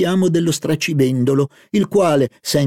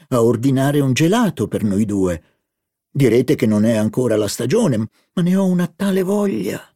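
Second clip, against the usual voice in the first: put-on eager young woman. Narrator voicing Albertine excited about the market food. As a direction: play Albertine, greedy and delighted.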